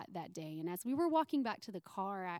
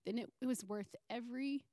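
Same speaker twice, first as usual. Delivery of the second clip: tearful. Real, not acted. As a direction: voice close to tears, whispering at times. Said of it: "and I'm gonna try not to cry".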